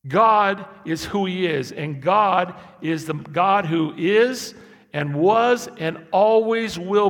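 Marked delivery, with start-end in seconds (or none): none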